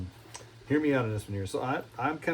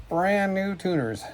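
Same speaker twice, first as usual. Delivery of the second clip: delighted emphasis; 8 semitones higher, slower than usual. Real, not acted. Showing off new tuners.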